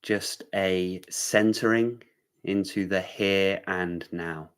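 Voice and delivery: unhurried meditation guiding with long pauses; measured meditation-teacher delivery; guided centering. Real, not acted. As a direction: ease listeners into stillness, phrase by phrase. Leads a brief centering.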